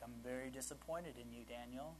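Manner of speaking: lightly voiced God, gently reproving; a hint of a let-down authority; disappointed God. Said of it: "I don't know how he speaks".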